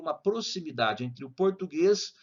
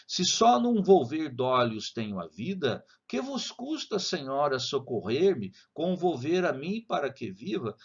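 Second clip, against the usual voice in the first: slow reading. Shown as a demonstration. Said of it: "vou ler devagar".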